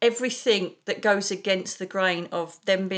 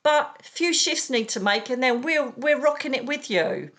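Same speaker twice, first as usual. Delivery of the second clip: voicing the aliens; 4 semitones higher than usual. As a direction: play the galactic friends greeting you. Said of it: "They're saying".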